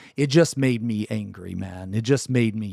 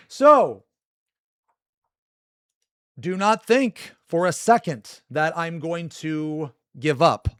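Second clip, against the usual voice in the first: defiant warning; 5 semitones higher, slower than usual. Real, not acted. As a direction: warn him he won't quit.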